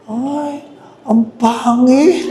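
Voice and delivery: slow laughing mock gasp; gossiping mourner. Scene: priest mimics coffin peekers' gossip, slow and laughing. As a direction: imitate a nosy mourner's snide remark. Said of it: "naririnig ko doon sa mga sumisilip".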